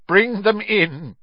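high, drawn-out courtroom call; echoing command. A narrator's reading. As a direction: call it out to carry through a dungeon. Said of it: "his voice echoed through the silent dungeon".

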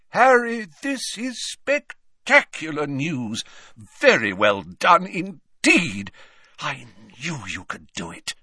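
put-on slow, beaming old wizard; delighted old headmaster. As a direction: praise him, deeply pleased. Dumbledore delighted.

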